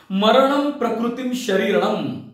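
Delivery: slow, drawn-out verse recital; Sanskrit recitation. Acted. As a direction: recite the verse slowly, like a schoolchild's lesson. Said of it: "मी मात्र म्हणत बसलो होतो". (संथ लयीत संस्कृत पठण)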